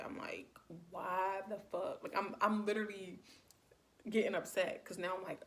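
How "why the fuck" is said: slow, whispered exasperation; frustrated. Retold or imitated. Annoyed in bed by repeated calls, frustrated whisper. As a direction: whisper it slowly, kinda fed up. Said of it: "I'm kinda frustrated".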